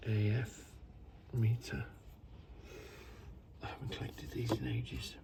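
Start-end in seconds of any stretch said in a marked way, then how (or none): 3.6-5.1 low soft wistful whisper; breathed out to himself. Real, not acted. Collector musing to himself, soft low whisper.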